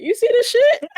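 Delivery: high, laughing squeal of disbelief; giggling to mom. Retold or imitated. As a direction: crack up at the absurdity. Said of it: "looking at my mom like".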